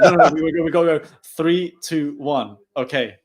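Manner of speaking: imitating Lucas correcting his teammate, keen and loud; excited correction. Lucas correcting his teammate on the countdown, loud and insistent. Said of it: "and he's like".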